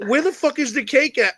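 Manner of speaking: a demanding parent asking where the cake went; mocking the angry mother. Friend imitating his demanding mother. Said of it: "She's like".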